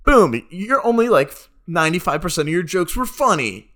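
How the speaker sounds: triumphant mock roast. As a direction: shout the punchlines triumphantly.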